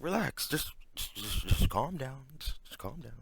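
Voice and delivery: mock soothing hush. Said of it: "Chris is like".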